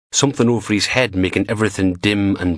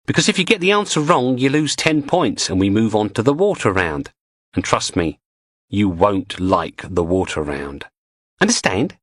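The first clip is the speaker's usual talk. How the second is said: mock quiz host menace; 3 semitones higher than usual. Cheery menace, rushing the warning.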